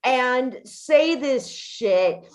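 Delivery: high, loud, exasperated retort; indignant outburst. Retold or imitated. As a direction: fire it back at the journalist, fed up and high. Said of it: "And I'm like".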